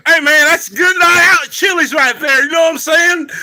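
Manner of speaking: high, loud, laughing through it. Real, not acted. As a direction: crack up while saying it. Laughing joke about Chili's.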